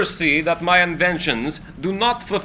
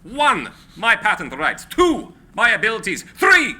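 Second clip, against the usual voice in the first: building to a shout; 4 semitones higher than usual. Acted. Tesla lists his side, building.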